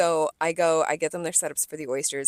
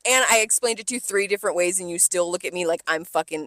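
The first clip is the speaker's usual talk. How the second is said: loud, higher furious venting; angry rant; 4 semitones higher, 4 dB louder than usual. Retold or imitated. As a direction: tear into her, loud and high. Ranting at the rude customer.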